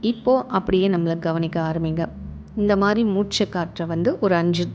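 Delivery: calm meditation guide, with long pauses between phrases; guided meditation. Acted. Guiding listeners to relax and observe their breath, calm meditation voice. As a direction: lead them gently through it, phrase by phrase, leaving room to breathe.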